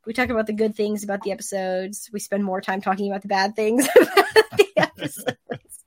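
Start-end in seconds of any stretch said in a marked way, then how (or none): 3.9-5.8 breaking into laughter mid-sentence; laughing. Real, not acted. Podcaster admitting they dwell on the bad things, laughing. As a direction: talk through a rising laugh.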